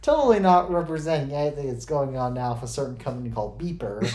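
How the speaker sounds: dryly sarcastic denial. Real, not acted. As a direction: deny it with obvious irony. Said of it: "I'm being very sarcastic".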